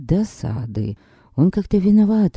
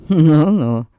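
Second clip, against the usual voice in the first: skeptical; 4 dB louder than usual. Acted. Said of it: "скептически хмыкнул Гилберт".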